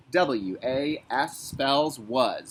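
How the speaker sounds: each letter spaced slowly; slow teacher spelling. Shown as a demonstration. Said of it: "Was is a basketball word".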